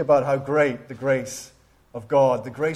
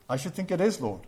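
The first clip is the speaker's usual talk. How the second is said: amused retort; 3 semitones higher, 4 dB quieter, faster than usual. Retold or imitated. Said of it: "and burst out laughing".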